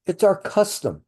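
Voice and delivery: lightly hammed Middle Eastern accent for Laban; a hint of Middle Eastern accent on Laban's excuse; deep Middle Eastern accent. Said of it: "It's gotta be in that deep Middle Eastern accent".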